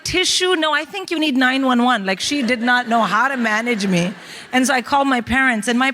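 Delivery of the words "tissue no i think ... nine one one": alarmed American roommate. Retold or imitated. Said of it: "She's like".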